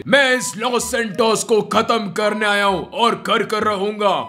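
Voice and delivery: deep gloating zombie villain. Acted. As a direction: gloat like an evil zombie boss. Villain Zombie Iron Man speaks.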